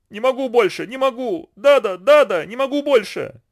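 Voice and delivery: put-on high, wailing child's voice; crying aloud. A narrator's reading. Exhausted children wailing in the boat, crying aloud. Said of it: "В голос плакали Коджа и Гбинуми".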